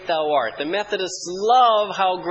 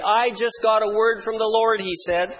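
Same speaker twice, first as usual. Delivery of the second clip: mock prophecy. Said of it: "gave this prophecy".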